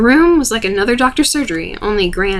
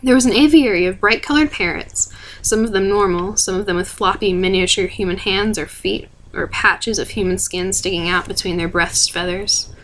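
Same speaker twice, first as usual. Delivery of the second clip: calm storytelling voice; story narration. A narrator's reading. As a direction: read it like an audiobook narrator. Narrator reads novel aloud.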